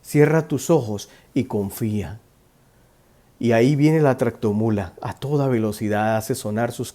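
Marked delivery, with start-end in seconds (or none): 0.0-2.2 calm reassurance. Retold or imitated. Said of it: "Y Jesús le dice".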